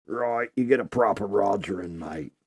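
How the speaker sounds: a lightly put-on British bloke; mock British accent. Mocking British accent again.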